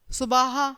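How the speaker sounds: "सुबह" with long middle A, su-baa-ha; misspelt option. Shown as a demonstration. Teacher reads children a quiz option, "सुबह" as subaaha. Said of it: "शुद्ध शब्द कौन सा है".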